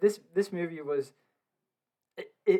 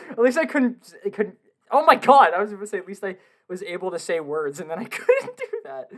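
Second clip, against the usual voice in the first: laughing; 5 semitones higher, 9 dB louder than usual. Real, not acted. Laughing at own speech fumble.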